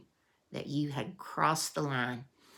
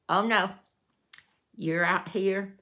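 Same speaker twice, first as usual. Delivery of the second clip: scolding; 5 semitones higher, 6 dB louder than usual. Retold or imitated. Mister Frank scolding the kids.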